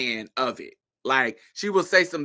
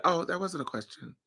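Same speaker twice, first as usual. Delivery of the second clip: mock Miranda; 2 semitones higher, 8 dB quieter than usual. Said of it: "and Miranda said".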